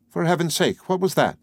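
high, startled question; acted shock, pitched high; startled alarm. A narrator's reading. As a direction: gasp out the question in fright. Startled by a hidden voice.

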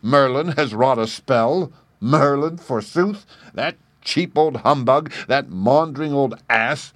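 loud, high, scornful shout; mocking shout at a rival magician. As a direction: bellow your contempt for Merlin. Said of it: "and shouted".

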